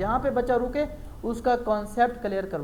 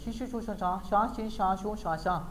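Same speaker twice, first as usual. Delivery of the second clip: mock Chinese. Shown as a demonstration. Teacher joking to a child, lightly mock Chinese. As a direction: make a child laugh with fake Chinese sounds. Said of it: "Chinese میں ایسے بات کرتے ہیں".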